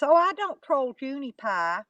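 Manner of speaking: mildly high mock imitation; mocking the troll. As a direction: lightly parody her denial. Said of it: "then she comes back and says".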